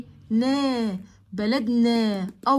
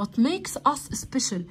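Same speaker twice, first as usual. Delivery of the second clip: slow reading; much slower than usual. Shown as a demonstration. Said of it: "teacher models English sentence".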